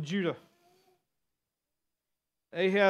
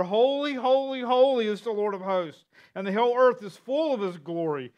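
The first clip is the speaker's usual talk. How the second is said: raised, ringing proclamation of praise; calling out; 4 semitones higher, 4 dB louder than usual. Acted. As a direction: call it out higher, then ease slightly. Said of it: "hears one call to the other".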